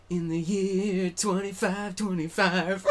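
slow, dramatic trailer-announcer read; movie trailer voice. Retold or imitated. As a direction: intone it like an epic opening title. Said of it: "it starts out".

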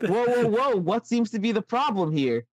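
soothing puppet-show host stepping in; kids' show host. Acted. Bray breaks up argument.

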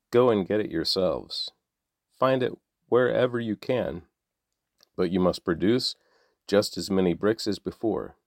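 measured, even reading of a Bible passage; scripture reading. A narrator's reading. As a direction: read the text to listeners steadily. Scripture reading before plain sign-off.

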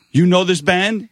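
high, loud surprised question; he can't believe what he found; officer finding the tour pass, surprised; surprised cop. Retold or imitated. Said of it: "the guy goes".

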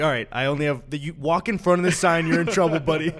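loud tough-guy warning; threatening redneck. Retold or imitated. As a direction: growl a threat at a trespasser. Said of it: "and they're like".

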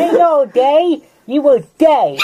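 put-on high, loud old-timer teasing; old prospector. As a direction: cackle back like an old coot. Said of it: "two old people have a conversation".

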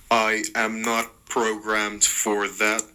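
slow robotic voice. Acted. Jordan voiced in story.

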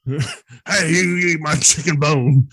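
loud, drawn-out conspiracy-host rant; Alex Jones impression. Co-host selling bone powder as Alex Jones, ranting impression. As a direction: hawk it like a ranting radio host. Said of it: "That's a pretty good Alex Jones".

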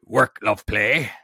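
lightly hammed-up pirate. Host naming a patron in a pirate voice. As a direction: call it out as a pirate would. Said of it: "in a pirate voice".

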